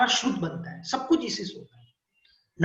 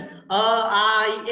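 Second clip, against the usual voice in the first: अ and आ said quickly, clipped short; rushed vowels; 5 dB louder, much slower than usual. Shown as a demonstration. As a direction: rattle off अ, आ too fast. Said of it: "ऐसे नहीं बोलना है". (जल्दी जल्दी अ, आ)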